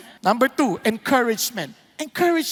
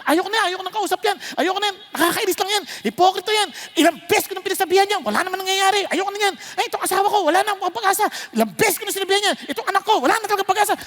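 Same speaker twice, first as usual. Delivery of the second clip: fed-up complaining; 5 semitones higher, much faster than usual. Retold or imitated. Voicing fed-up churchgoer's complaints.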